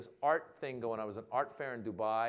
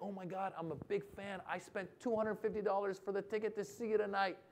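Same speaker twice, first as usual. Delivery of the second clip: lightly voiced eager fan, pitched up and quick; gushing fan; 6 semitones higher, 5 dB quieter, faster than usual. Event guest to comedian before the show, lightly gushing. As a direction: rattle it off higher, a touch star-struck. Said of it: "people are coming up to you before going like".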